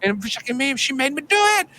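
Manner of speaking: lightly voiced creepy child ghost; shrill spooky sing-song; hint of a haunted child; high mock ghost voice. Retold ghost line.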